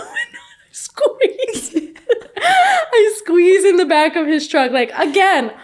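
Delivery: slow, loud, laughing and near tears; laughing crying. Real, not acted. Telling the host how she squeezed into his truck, laughing and near tears. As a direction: laugh helplessly through the memory, half crying.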